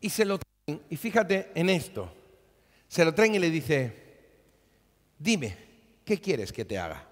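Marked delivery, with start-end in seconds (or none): 5.2-7.1 gentle Jesus. Retold or imitated. Jesus voiced in the story.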